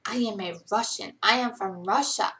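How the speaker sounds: light attempt at a Russian accent. Shown as a demonstration. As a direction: try on a mild Russian accent. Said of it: "Russian accent".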